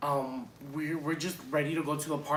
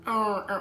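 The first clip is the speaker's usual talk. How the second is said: higher, louder mock siren bursts; failed siren imitation; 6 semitones higher, 5 dB louder than usual. Storyteller giving up on mimicking the police, failed siren imitation. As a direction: have another rough go at a police siren. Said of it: "I can't even do that voice, that thing".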